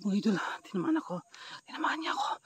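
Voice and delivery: breathless whisper after the hit. Pretend. Vlogger whispers to viewers that the aswang hit him. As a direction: whisper that you got hurt.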